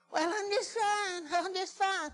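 high, drawn-out mock reassurance; pretending to be healed. Preacher mimics someone asked how they're doing, pretending to be healed. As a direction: put on a slow, high, strained "fine". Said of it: "acting like I'm healed".

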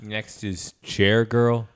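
slow, drawn-out club announcer call; slow mock strip club announcer. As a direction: announce the next dancer slowly. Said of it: "announcer at a strip club".

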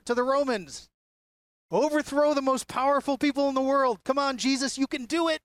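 lightly voiced crowd urging the king on; eager crowd voice. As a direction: cheer him on like a hopeful crowd. Voicing the crowd wanting a king.

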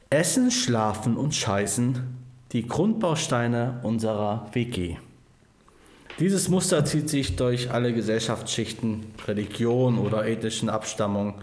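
measured commentary read; reading aloud. Acted. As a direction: read it out like an earnest editorial. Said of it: "ich lese es euch gerne mal vor".

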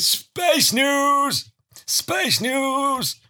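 high, bright segment announcement; jingle call. Acted. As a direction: sing it out like a jingle.

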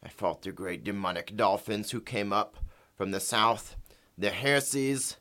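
lightly voiced porpoise on a phone line; a porpoise speaking through a phone; over the phone. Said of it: "We're gonna do a phone interview with them".

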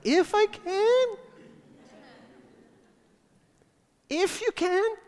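high, slow squeaky incredulous question; squeaky high disbelief. Acted. Jesus echoing the father's doubt, squeaky and high. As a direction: let the voice crack upward, stretched out. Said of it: "his voice went up and got squeaky like mine".

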